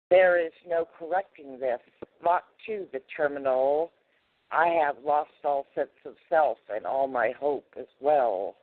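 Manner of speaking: computer voice. Pretend. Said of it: "I'm gonna change my voice a little bit so that, um, I sound like a computer".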